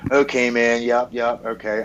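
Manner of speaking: retold brush-off, agreeing just to end the call; mock-agreeable, held level tone on each okay and yup; placating agreement. Husband agreeing with his friend just to hang up, placating. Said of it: "I was just agreeing with him to hang up the phone".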